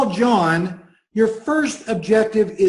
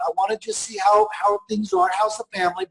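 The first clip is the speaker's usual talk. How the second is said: high-pitched; 13 semitones higher than usual. Shown as a demonstration. Demo call, jumps very high.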